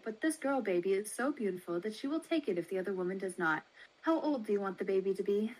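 lightly voiced brisk baby seller, quick; a hint of a brisk matron, fast. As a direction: rattle it off like a businesslike matron.

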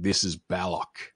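loud, grand cartoon announcer; booming announcer voice. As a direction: boom it out like a cartoon narrator. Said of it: "we get a booming voice saying".

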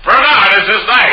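high, grand stage swami; hammy mystic showman. Acted. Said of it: "We have the Swami up here on the stage".

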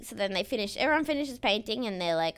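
usual speaking voice

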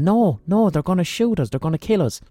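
imitating a frightened shout, pitch jumping up; hammed-up fear of being shot; mock panicked scream. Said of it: "we start screaming".

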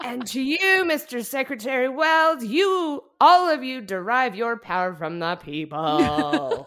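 put-on loud, high, slow drunken orator; drunk speech. Vice president drunkenly ranting his inauguration speech, loud and slurry. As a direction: bellow it out like a plastered vice president. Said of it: "can I give you a little of the speech".

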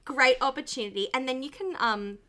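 loud, gushing sales pitch; over-eager boss babe pitch; MLM seller voice. Retold or imitated. Continuing the MLM parody.

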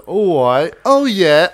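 elongated Australian vowels; attempted Australian accent. Shown as a demonstration. Trying Australia's longer vowels, failed Australian accent. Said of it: "vowels are more, is, in Australia, elongated".

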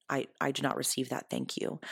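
calm, courteous boundary; kindly. Shown as a demonstration. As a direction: decline politely without aggression. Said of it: "You can very kindly say".

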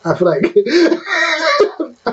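high, slow, giggling dancehall artist; laughing. Real, not acted. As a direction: crack up while saying the name. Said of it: "I can't just say the artist's name".

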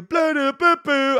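high, loud nonsense in an announcer cadence; just the rhythm of a hype man, no words; mock hype cadence. Showing crowds only hear cadence, mock hype gibberish. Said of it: "And then I do".

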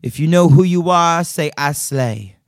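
rally a concert crowd; a singer. Retold or imitated. Fan imitating a singer opening her tour show, commanding. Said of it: "she'd always start by going".

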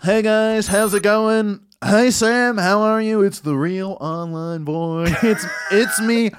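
lightly voiced Trump son, eager and goofy; Donald Trump Junior. Comedian switching to Trump's son greeting fans, lightly voiced. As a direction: play the son trying hard to sound like dad. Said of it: "Donald Trump Junior".

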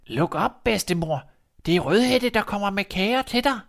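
high, put-on sweet girl voice; wolf faking a girl. Wolf at the door to grandmother, faking Red's voice. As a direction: lure them to open the door. Wolf fakes Red again.

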